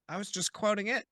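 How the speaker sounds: first try at the line; quoting, first take. Shown as a demonstration. To the king, first attempt at the quote. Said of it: "Or sorry".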